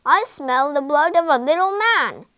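loud menacing giant chant; rumbling bellow. A narrator's reading. Giant smells Jack in the kitchen, bellowing menace. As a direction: boom it out hungrily. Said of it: "bellowed a rumbling voice".

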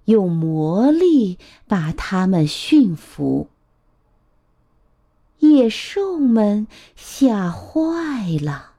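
put-on measured, expressive storytelling to a child; picture-book narration. A narrator's reading. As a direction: read a picture book aloud to little ones.

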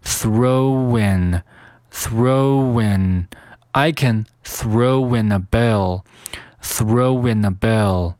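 "throw in" joined with a w, throw-win; "throw in a bell" linked as throw-winna bell; added linking sound. Shown as a demonstration. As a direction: glide from "throw" into "in" through a w. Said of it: "throw和in有一个添加连读".

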